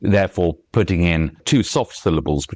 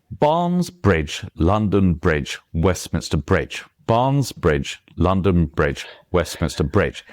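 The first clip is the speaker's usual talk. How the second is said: "Barnes Bridge, London Bridge, Westminster Bridge" chanted to an even stress beat; steady rhythm; 3 semitones lower, slower than usual. Shown as a demonstration. Author tests out English stress timing, steady rhythm. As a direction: keep the beat, squeezing the extra syllables of "Westminster". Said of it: "stressed syllables there are coming out in absolute rhythm".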